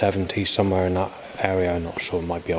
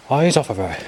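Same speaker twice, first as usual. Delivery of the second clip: mock-sarcastic, higher-pitched retort; sarcastic imitation; 5 semitones higher, 4 dB louder than usual. Thirty-five-year-old telling off a man for looking, mock sarcastic. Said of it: "sarcastic, sort of calm accent".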